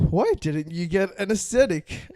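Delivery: loud, slow put-on Balinese accent; Asian accent. Shown as a demonstration. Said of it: "in an Asian accent".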